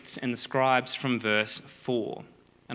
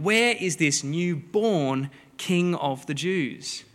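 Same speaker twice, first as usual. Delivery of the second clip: slow, drawn-out question, a lightly voiced traveller; eager Magi asking; 3 semitones higher, much slower than usual. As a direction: stretch it out like a wise man searching from town to town. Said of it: "riling everyone up and going".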